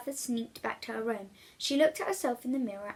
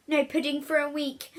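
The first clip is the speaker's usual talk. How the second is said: louder, firmer punishment; stern mother; 5 semitones higher, 5 dB louder than usual. Acted. Mother punishing William, loud and stern. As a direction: lay down the law.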